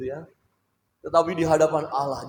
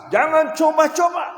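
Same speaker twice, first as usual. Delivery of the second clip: high, loud warning; louder; 14 semitones higher, 11 dB louder than usual. Shown as a demonstration. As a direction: raise it, firmly. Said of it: "Oke, agak keras". (ucapkan lebih keras)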